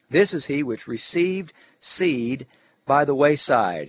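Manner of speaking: deliberate, phrase-by-phrase Bible reading; measured scripture delivery with weighted phrase openings. Acted. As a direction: read the verses aloud to a class. Reads Christ's explanation from scripture.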